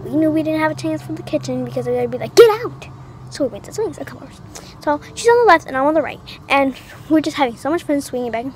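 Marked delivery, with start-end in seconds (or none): 2.3-2.9 high, loud mock shout; retold shout. Kids chasing others out of the kitchen, retold shout. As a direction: shoo them away in a loud retold yell.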